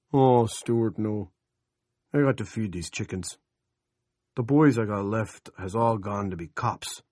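a hint of a whiny hick begging off; whiny chicken farmer. Roger whines, can't come.

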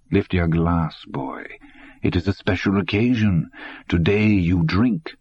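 put-on lightly accented old man giving an order; a hint of a stern old German; commanding old German. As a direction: tell the boy to drink, calm and firm.

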